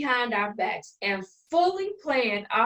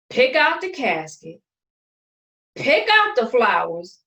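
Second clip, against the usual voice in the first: outraged; 4 semitones higher, 5 dB louder than usual. Acted. Outraged listing of offenses.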